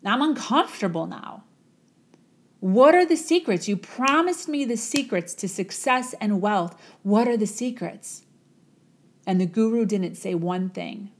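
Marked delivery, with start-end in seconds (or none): 0.0-8.2 a fed-up student pressing for answers; irritated young man. Acted. Young man up to his neck in water, irritated with the guru. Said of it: "the young man is irritated to all heck".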